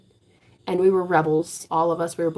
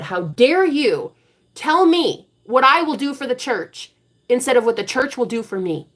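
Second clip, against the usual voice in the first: retold yell; 5 semitones higher, 4 dB louder than usual. Standing up to grandpa in church, raised mock yell. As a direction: call him out, half yelling. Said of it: "And I yelled it".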